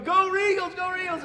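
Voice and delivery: high, loud jeering chant; mocking cheer. Preacher acting the other team cheering him wrong way. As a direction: taunt him like the rival bench. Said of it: "the other team was going".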